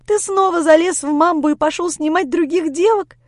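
high, loud jealous accusation; shouted accusation. Acted. Lera accusing Grisha of dating apps, jealous fury. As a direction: hurl the charge at him.

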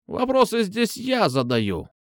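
mildly angry. A narrator's reading. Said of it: "сердито ответила она".

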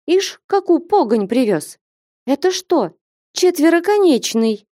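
high, angry scolding wife; angry scolding cry. A narrator's reading. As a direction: scold him sharply, voice up high. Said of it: "сердито вскрикнула на мужа".

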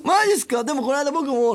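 high, excited junior chiming in; eager junior. Retold or imitated. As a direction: play the keen junior sucking up. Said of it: "なんつって".

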